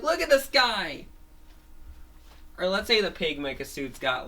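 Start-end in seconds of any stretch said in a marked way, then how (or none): 0.0-1.1 high pointing exclamation; much higher, eager shout; excited onlooker. Acted. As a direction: call your friends over to look. People point at the suit.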